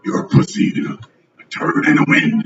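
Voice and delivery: whispery imitation of a movie monster; Venom. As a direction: imitate the monster in a voiceless rasp. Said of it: "he sound like my dad".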